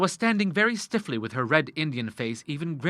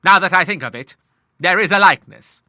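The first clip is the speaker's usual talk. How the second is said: cry out; 6 semitones higher, 10 dB louder than usual. A narrator's reading. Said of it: "Cried he".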